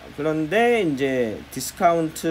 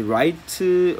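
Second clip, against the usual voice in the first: drawn-out word; 3 semitones higher, 4 dB louder than usual. Shown as a demonstration. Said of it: "rect, right 비슷하잖아요".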